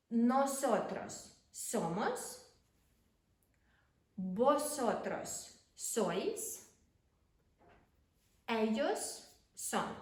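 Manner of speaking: each pronoun stretched out clearly; slow, careful Spanish drill read; slow model conjugations. Shown as a demonstration. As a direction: say it slowly so learners can copy. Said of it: "teacher models conjugations slowly".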